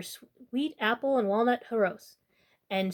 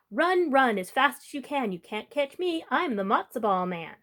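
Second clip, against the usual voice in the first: taunting call. Acted. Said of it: "He called back over his shoulder".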